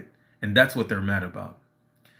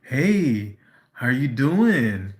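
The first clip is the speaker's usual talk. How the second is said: sarcastic; 2 semitones higher, much slower than usual. Retold or imitated. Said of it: "she's being all sarcastic and being like".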